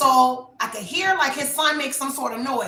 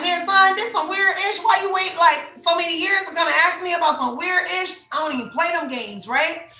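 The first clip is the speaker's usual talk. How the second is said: a retort to the ex, half laughing in disbelief; exasperated disbelief; 3 semitones higher than usual. Retold or imitated. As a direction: scold him like the whole thing is absurd. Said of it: "and I'm like".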